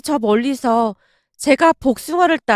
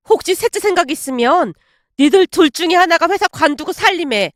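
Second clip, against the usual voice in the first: angry scolding; 3 semitones higher than usual. Acted. Mother-in-law scolds daughter-in-law.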